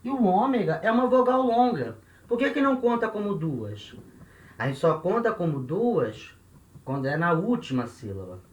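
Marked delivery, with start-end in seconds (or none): 0.0-4.0 lightly voiced puzzled student, higher in pitch; a hint of a student's protest; objecting student. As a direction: query it like a pupil spotting a contradiction. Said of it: "você vai falar pra mim".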